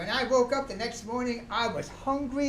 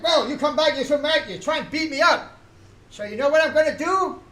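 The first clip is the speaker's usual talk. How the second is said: mock angry scolding; 5 semitones higher, 8 dB louder than usual. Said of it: "was he mad".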